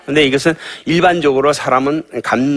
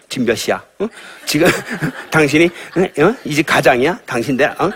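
nagging wife; 4 semitones higher than usual. Shown as a demonstration. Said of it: "이게 사망의 말이에요".

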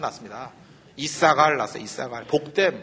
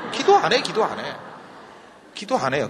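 laughing jab. Real, not acted. Mocking exclamation.

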